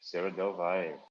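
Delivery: slow, drawn-out announcer sign-off; show outro. Acted. Host closing the reading show, slow announcer voice. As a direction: announce the show's close like a radio host.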